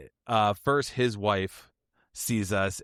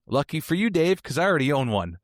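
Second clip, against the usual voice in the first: higher and louder, smugly pleased; smug reply; 5 semitones higher, 4 dB louder than usual. Retold or imitated. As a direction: crow it like you've been waiting to say it. Friend brags he owns one.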